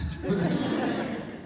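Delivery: high breathy laugh; burst of laughter. Real, not acted. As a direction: break into laughter. Laughs after joke.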